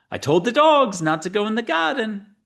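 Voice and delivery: high-pitched, badly done Asian accent; attempted Asian accent. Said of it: "It's supposed to be an Asian accent".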